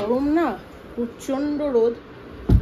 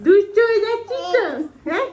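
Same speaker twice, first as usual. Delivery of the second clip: high, loud mock telling-off; playful scolding; 7 semitones higher, 5 dB louder than usual. Real, not acted. Mother teasing her toddler for getting naughty, high and loud.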